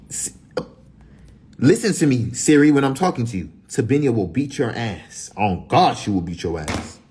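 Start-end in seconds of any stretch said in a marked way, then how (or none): 1.6-7.0 scolding. Real, not acted. Scolding Siri loudly.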